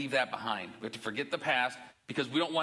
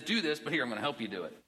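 reassuring. Retold or imitated. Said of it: "He says".

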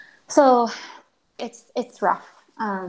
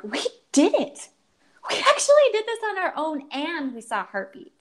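tearful joy; 8 semitones higher than usual. Retold or imitated. Crying with joy at ultrasound.

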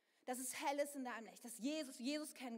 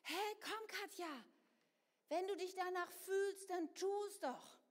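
coaxing ego; 3 semitones higher, slower than usual. Retold or imitated. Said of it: "zieht auch an mir und sagt".

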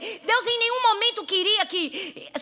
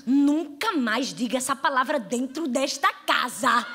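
put-on stern older sister; 5 semitones lower, slower than usual. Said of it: "foi pra cima dela e disse".

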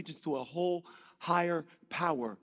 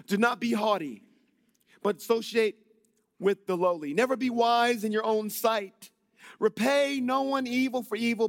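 loud, raised preacher's reading; forceful scripture reading; 4 semitones higher, 4 dB louder than usual. Acted. Preacher reads winning strategies from Scripture, forceful proclamation. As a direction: proclaim the verses to the congregation.

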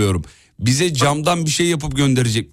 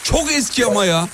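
surprised; 10 semitones higher than usual. Real, not acted. Remembers the old caller.

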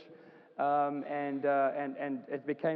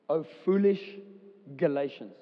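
exclaimed scripture; 4 dB louder than usual. Acted. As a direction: cry out "foolish" like a scolding apostle. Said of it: "Exclamation mark".

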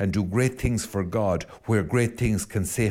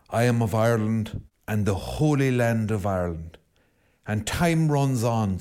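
poem recitation. Shown as a demonstration. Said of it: "in the words of W B Yeats".

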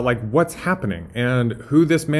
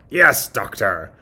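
slow, obedient henchman voice; Igor; 3 dB louder, slower than usual. Acted. Assistant answers the doctor, slow and servile. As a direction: answer as the dutiful lab assistant. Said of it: "imagine Doctor Frankenstein and Igor".

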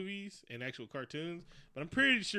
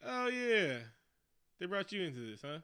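mock greeting call; 5 semitones higher, 5 dB louder than usual. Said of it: "I was like".

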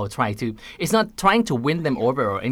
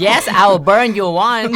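high, slow, loud fairy godmother; 9 semitones higher, 8 dB louder, slower than usual. Pretend. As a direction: grant the wish like a fairy godmother. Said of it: "the fairy godmother is here today".

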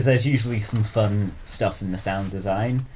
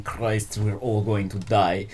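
put-on Russian accent; 3 semitones lower, 4 dB quieter, slower than usual. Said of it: "in a Russian acc-, accent".

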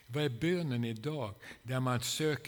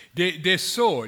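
crying out to God; 6 semitones higher, 14 dB louder than usual. Shown as a demonstration. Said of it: "skriker till honom att han måste ingripa".

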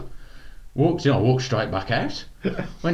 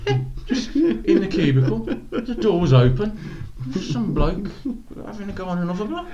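laughing retelling; 11 semitones higher than usual. Retold or imitated. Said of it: "And he went".

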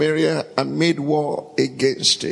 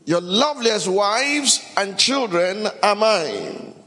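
gloating king; 5 semitones higher than usual. Acted. King Ben-Hadad's demand voiced.

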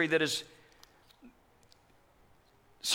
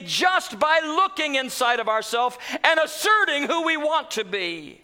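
sermon shout; 3 semitones higher than usual. Acted. Preaching shout.

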